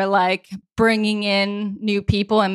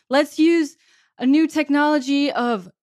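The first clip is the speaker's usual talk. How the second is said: excited; 5 semitones higher than usual. Retold or imitated. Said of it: "you were like".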